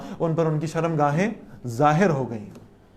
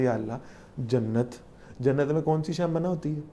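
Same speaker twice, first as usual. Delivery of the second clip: soft, gentle pleading, quieter; lovingly; 3 dB quieter than usual. Retold or imitated. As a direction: speak to God like a loving child asking why. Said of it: "آدم علیہ السلام بہت پیار سے کہتے".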